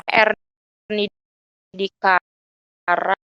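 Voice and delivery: choppy, stretched words over bad line; buffering stutter. Real, not acted. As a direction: voice breaking up on a laggy call. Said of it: "Halo, suara putus-putus". (suara putus-putus terputus sinyal)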